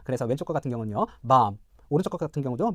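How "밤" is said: 밤 said like "bahm"; American "ah" vowel. Shown as a demonstration. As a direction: say 밤 as English bahm, open ah. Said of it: "동일하게 발음이 됩니다".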